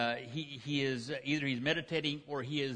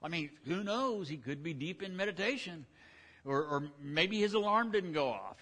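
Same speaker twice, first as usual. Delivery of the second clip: lazy mockery; 6 semitones higher than usual. Elijah leaning on a tree taunting the prophets, teasing high mockery. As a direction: toss it off idly while filing nails. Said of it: "He said".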